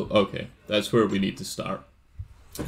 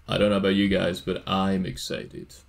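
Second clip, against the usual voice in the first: mock excited; 2 semitones lower than usual. Real, not acted. Streamer tells co-players about the quest, mock excited. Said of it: "You sound so excited".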